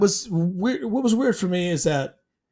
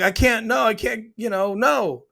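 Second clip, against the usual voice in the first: acted-out protest, higher pitch; mildly insistent mock refusal; retold refusal; 5 semitones higher than usual.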